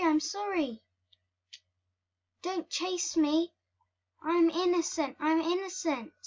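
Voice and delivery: high-pitched, squeaky begging; mock pleading. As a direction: plead repeatedly like a chased little mouse. Mouse pleads while chased.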